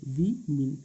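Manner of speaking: "वी मीन" split into two syllables, one vowel in each. Shown as a demonstration. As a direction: say "वी मीन" as two separate beats, vee-meen. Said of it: "दो vowel का pronunciation भी होता है". ("वी मीन" को दो syllable में तोड़कर बोलें)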